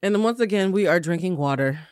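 talking around gum; chewing gum. Real, not acted. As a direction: gum in the mouth. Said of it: "let me spit out my gum".

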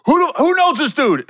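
loud, high demand to the room; going off. Retold or imitated. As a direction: call out angrily to everyone backstage. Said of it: "went ham on the dude".

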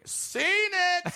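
high, far-off mocking voice; bored "seen it" call. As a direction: toss off a jaded high-pitched "seen it". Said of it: "a midget doing a cartwheel going".

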